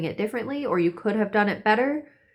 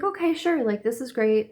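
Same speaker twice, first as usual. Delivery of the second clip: high, light imitated agreement; mock breezy politeness; casual acceptance; 4 semitones higher than usual. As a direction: agree as if it's nothing, starting high. Acting casual reply to big news.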